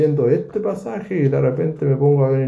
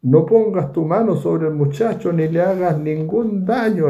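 a lightly raised, urgent angel's voice; the angel halting Abraham, a touch higher; angel commanding; 5 semitones higher than usual. Acted. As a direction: stop his hand, firm and pitched up. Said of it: "le dijo el ángel".

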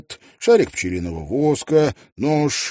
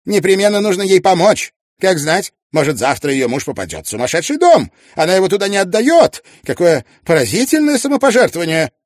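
put-on much higher, louder lively elderly lady; Mrs Wannop voiced; 11 semitones higher, 10 dB louder, faster than usual. Mrs Wannop refusing Tietjens the reins, lively and high. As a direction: playfully put the young man in his place.

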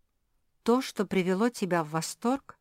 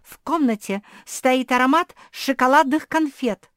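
loud insistence; 8 semitones higher, 13 dB louder than usual. Acted. Kuki insisting loudly.

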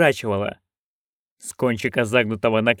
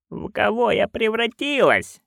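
roared; 8 semitones higher, 3 dB quieter than usual. A narrator's reading. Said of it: "взревела матушка".

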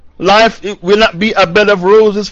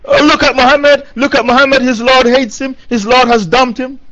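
higher-pitched, taunting imitation of scoffers; mocking jeer; 4 semitones higher than usual. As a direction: imitate the mockers jeering at him. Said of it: "kuffar of Makkah were laughing at the Prophet".

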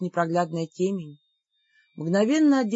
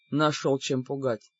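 scoffing; 6 semitones lower, 4 dB quieter than usual. Acted. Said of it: "хмыкнул Гор".

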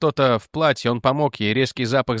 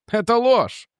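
angry denial; 10 semitones higher, slower than usual. Acted. Son denies father's confession.

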